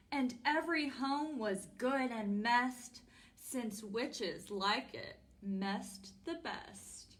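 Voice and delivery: measured, rhyming storybook narration; reading to children. A narrator's reading. Storytime host reads a witch tale to children, storybook narration.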